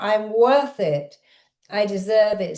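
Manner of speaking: deliberate, empowered declaration; mild demonstrated shout. Shown as a demonstration. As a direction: call it out firmly, short of shouting. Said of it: "Shout it out".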